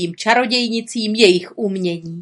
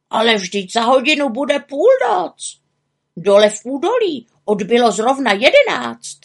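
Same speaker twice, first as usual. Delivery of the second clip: high, fretting raven voice; agitated high-pitched warning; worried raven; 4 semitones higher, 5 dB louder than usual. Acted. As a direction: protest anxiously in a raised character voice. Raven worries time is short.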